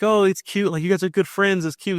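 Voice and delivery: high-pitched mock cooing; teasing. Parents teasing their son about a crush, high-pitched teasing. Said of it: "we're teasing him and stuff like that".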